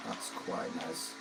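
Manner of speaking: breathy slow whisper. Real, not acted. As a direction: breathe it out slowly, hushed. Admiring the car.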